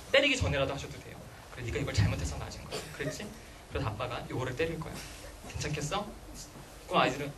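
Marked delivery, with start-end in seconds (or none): 1.5-6.1 put-on soft, lower, calm explaining to a child; patiently walk the child through it; gentle father. Father calmly explaining a smack to his child, soft and gentle.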